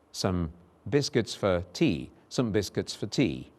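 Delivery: weak "some" and "for" in "some biscuits for tea"; schwa demo. Shown as a demonstration. Teacher showing schwas in context. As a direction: let "for" go weak. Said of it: "vowel schwa there".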